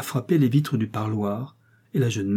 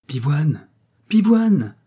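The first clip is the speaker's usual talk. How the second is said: put-on a girl calling her brother across the garden; rising storybook holler; 4 semitones higher, 5 dB louder, much slower than usual. A narrator's reading. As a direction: call the name, second time higher and louder. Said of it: "criait Violette à son frère d'un bout à l'autre du jardin".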